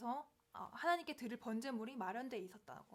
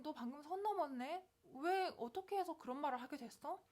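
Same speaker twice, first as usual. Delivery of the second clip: gently raised, understanding inquiry; loving question; 4 semitones higher than usual. Acted. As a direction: ask a friend what happened without scolding. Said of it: "이런 식으로 사랑을 하는 거예요". (다정하게 이유를 묻는 말투)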